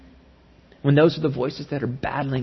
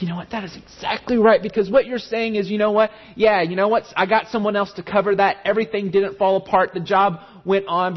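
higher, eager affirmation; a touch of excited approval; excited agreement; 3 semitones higher than usual. Retold or imitated. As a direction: cheer him on warmly. Enthusiastic agreement with the dad.

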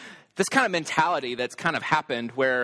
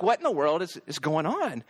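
mock a parent's fed-up disbelief; annoyed disbelief; 3 semitones higher than usual. Dad as kids keep coming downstairs after bedtime, mildly annoyed. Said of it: "getting incredibly annoyed and frustrated".

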